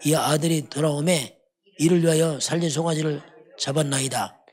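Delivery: solemn, unhurried Bible reading, slowing at the end; measured pulpit reading; scripture reading. Acted. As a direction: read the father's command from the pulpit. Reads the elder son's complaint.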